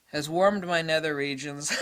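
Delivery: laughing through the punchline; giggling through "warmed". Real, not acted. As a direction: crack up as you say it. Repeats phrase, then laughs through it.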